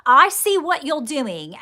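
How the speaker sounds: channeled rebuke, lightly voiced; stern reprimand from spirit. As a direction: scold them slowly like a disappointed elder. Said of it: "he's sort of telling me to reprimand you".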